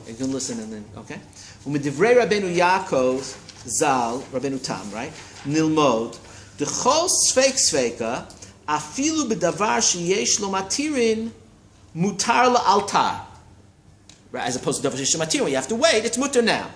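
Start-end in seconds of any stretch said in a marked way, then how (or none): 1.7-13.2 slow, deliberate reading of the text; read slowly. Shown as a demonstration. Teacher reading the Rashba aloud to a student, slowly. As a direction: spell the quote out slowly for the student. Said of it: "I'll read it slowly".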